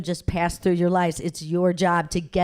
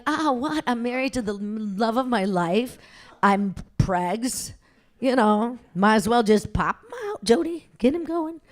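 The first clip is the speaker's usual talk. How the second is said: giddy excitement; 2 semitones higher than usual. Retold or imitated. Young wife gushing about being pregnant, giddy. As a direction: squeal it like happy news.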